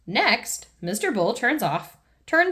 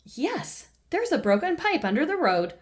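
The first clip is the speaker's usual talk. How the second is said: Mister Bull; 4 semitones higher than usual. Acted. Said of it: "says Mister Bull".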